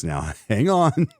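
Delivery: chuckling, slowed-down hang on; laughing hang on. Real, not acted. Host reacting to an absurd headline, laughing as he stops. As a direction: laugh through it as you halt the listener. Stopping himself over a surprising headline.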